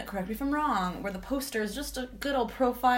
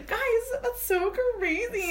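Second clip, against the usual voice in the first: mock surprise; slower than usual.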